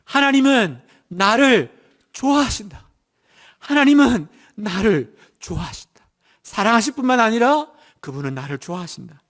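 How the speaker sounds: preacher's model affirmation; declaration of faith. Shown as a demonstration. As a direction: proclaim it for all to repeat. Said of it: "믿음으로 고백하십시오".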